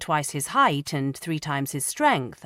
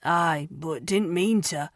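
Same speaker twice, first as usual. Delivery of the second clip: trembling; slower than usual. Acted.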